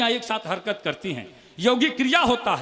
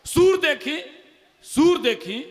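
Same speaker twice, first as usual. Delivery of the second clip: poem opening; 3 semitones higher, 3 dB louder, slower than usual. Acted. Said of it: "एक मुक्तक और सुनी".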